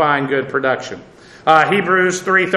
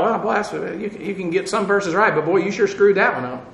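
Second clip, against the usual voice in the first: dry mock blessing; 4 dB quieter than usual. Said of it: "And I thought".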